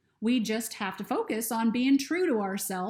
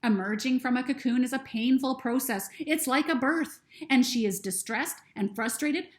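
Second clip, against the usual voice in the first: lightly voiced bird, louder and insistent; firm bird explaining, a bit raised; Bird's voice; 3 semitones higher, 5 dB louder than usual.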